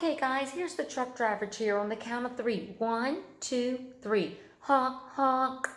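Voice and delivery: lightly voiced silly trucker cheer; goofy cheer, like a truck driver; silly clown.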